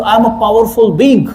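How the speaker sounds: slow, deliberate self-affirmation. Retold or imitated. Speaker recalls his affirmation practice, slow deliberate affirmation. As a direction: say it like you mean it. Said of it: "तब मैं ये बोलता था".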